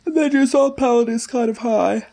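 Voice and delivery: high, lifted speech on an inhaled K feel; vacuum K voice. Shown as a demonstration. Coach demonstrating the vacuum K, high and lifted. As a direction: talk with the palate pulled up high. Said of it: "If you do a K sound, but you're inhaling".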